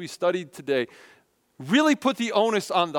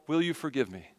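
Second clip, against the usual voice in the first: humble plea; 5 dB quieter than usual. Shown as a demonstration. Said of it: "if we're really humble".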